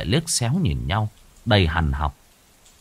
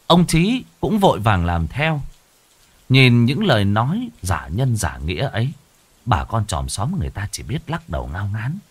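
ordinary delivery

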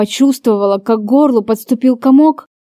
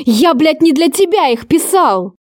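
explosive outburst; 5 semitones higher than usual. Acted. Lover finally explodes at her for reading his letters, furious burst. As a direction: repeat it higher and bursting with rage. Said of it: "Взорвался он".

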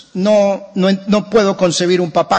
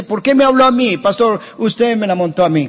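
mock complaint; 4 semitones higher than usual. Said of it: "la gente dice".

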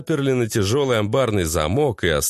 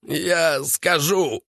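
higher, slow breaking plea; desperate cry; 6 semitones higher, much slower than usual. A narrator's reading. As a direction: blurt it out in terror. Broken captive gives in.

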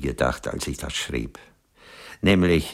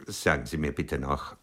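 slow, breathless whisper, much softer; pleading whisper; 7 dB quieter than usual. Acted. Aging author whispers to the actress, begging for reassurance. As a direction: whisper it like a secret plea for comfort.

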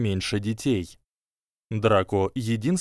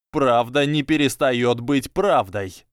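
trembling voice, louder and slow; slow, trembling repetition; tragic heroine sorrow; 3 semitones higher, 4 dB louder than usual. Acted. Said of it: "дрожащим голосом отозвался Драко". (дрожащим голосом)

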